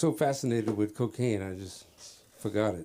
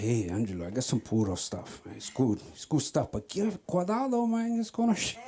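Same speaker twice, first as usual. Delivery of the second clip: lightly voiced Cuban dealer; Cuban accent; 2 semitones lower than usual. Cuban guy pitching his stuff to Angelo, light Cuban accent. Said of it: "Cuban guy. He said".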